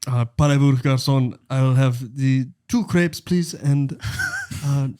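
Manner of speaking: French customer. Pretend. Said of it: "I'm getting into character now".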